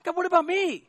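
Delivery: a lightly voiced Adam whining to God; Adam pleading with God. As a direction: beg God for a partner, half-joking.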